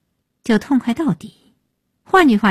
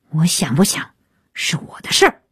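mildly indignant narrated retort, jumping up in pitch; angry retort; 2 semitones lower, faster than usual. A narrator's reading. Son tells his wife it's his own business, mildly angry. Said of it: "鹏飞怒道".

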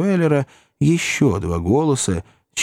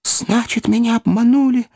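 indignant exclamation; 12 semitones higher than usual. A narrator's reading. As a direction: cry out at being duped. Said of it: "воскликнул мистер Пиквик".

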